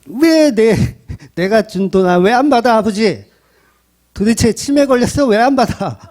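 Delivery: whiny, angry, demanding tone.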